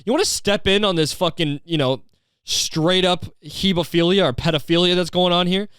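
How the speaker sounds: high, pushy outrage at the mom; exasperated demand. Retold or imitated. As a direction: demand she step in, fed up. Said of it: "It's just like".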